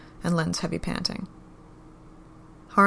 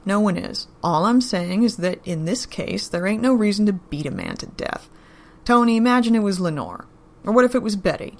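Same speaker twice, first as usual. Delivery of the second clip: louder, firm and irritated; 4 dB louder than usual. Acted. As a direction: lay down the law, annoyed. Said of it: "the irritation in his voice was clear".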